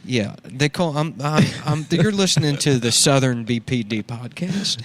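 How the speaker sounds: lightly voiced redneck art hoe; redneck character. Cletus introducing his podcast, lightly redneck voiced. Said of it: "That's a good character, dude".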